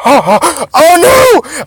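high, loud "oh no" outburst; too-loud cry. Real, not acted. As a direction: wail it at full volume. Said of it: "my volume's way too loud".

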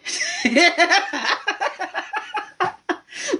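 long, high laughing fit; real laughter. Real, not acted. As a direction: lose it after confessing. Laughs at her own confession.

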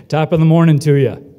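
a cheery shout-out to the whole hall; loud Irish greeting call. Pretend. Host calls out to the graduating class, loud cheery greeting.

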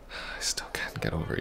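whispered, barely voiced admission; hushed confession. To the ex who left, a whispered confession. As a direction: let it slip out as a near whisper.

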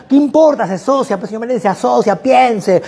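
put-on high, rushed, overeager young salesman; eager salesman. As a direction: pitch the shared taxi like a pushy go-getter. Student insists to Meléndez.

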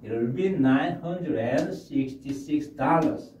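very slow, clear phrase; slow model sentence. Shown as a demonstration. Teacher modelling the full sentence slowly. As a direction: lay it out word by word. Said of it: "이렇게 하면 됩니다".

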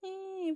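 high pretend baby whimper; mock baby cry. Baby doll cries at mother, high mock whine. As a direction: imitate a baby fussing up high.

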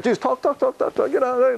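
a hint of an exasperated wife; mock exasperated wife. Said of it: "she's like".

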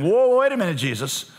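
high, loud protesting whoa; mock indignant whoa. Pharisees protesting to Jesus in a high, loud whoa. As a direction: cry out in mock alarm to stop him. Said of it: "They said to him".

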